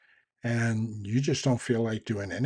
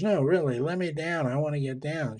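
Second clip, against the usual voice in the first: put-on insistent little girl; 4 semitones higher than usual. Voicing stranded girl insisting in story.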